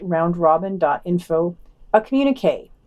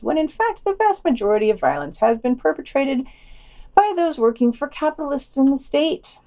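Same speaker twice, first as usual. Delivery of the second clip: higher-pitched sneering read of the quote; mocking quote reading; 5 semitones higher than usual. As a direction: read it like you're mocking the author.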